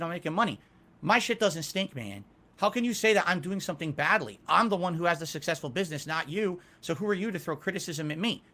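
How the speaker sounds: mock arrogant past self. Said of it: "my mentality was".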